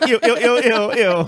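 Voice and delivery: high, loud grossed-out squeal; disgusted squeal. Retold or imitated. Imitating Pat's disgusted run.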